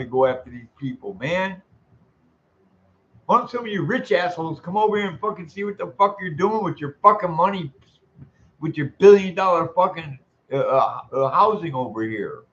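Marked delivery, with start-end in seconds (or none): 3.3-12.4 real furious rant at rich landlords; angry tirade. Real, not acted. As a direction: hurl it at the rich owners.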